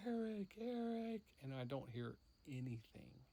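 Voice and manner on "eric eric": high, raised searching call; loud, high call into the dark. Retold or imitated. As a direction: call down for a lost brother. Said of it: "I'm like".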